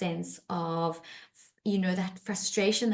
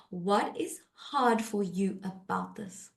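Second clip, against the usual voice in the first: gentle question; 4 dB quieter, slower than usual. Shown as a demonstration. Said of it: "That's the question".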